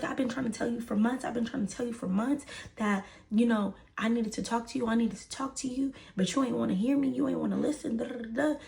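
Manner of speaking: high, repetitive retold tirade; going off. Mom complaining to brother about daughter, mock going off. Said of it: "going off".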